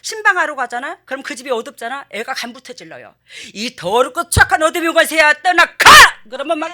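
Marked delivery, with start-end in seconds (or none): 3.5-5.7 high, loud exorcising shout; imitating a child shouting at spirits; commanding rebuke. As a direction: cast it out like a tiny preacher.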